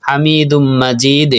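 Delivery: "হামিদুম মাজিদ" recited slowly with an echoed, bounced final d; slow "হামিদুম মাজিদ", long vowels, bouncing final d; qalqalah echo. Shown as a demonstration. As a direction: push off the last consonant of "মাজিদ" into a small echo. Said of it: "এইগুলা call করা হলে প্রতিধ্বনি".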